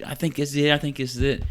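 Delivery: unsure nurse. Retold or imitated.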